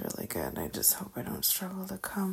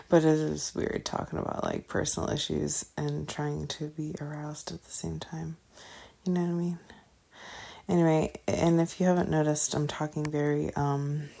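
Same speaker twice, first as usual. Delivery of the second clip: slurred, mumbled speech; mumbling. Real, not acted. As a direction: talk like marbles in your mouth. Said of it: "probably sound like I have marbles in my mouth".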